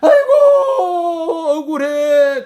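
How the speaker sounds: loud, high, long-drawn mock lament; imitating a sobbing cry of injustice; tearful wailing. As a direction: wail out the grievance, stretching the first cry. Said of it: "막 울면서 막 할 때".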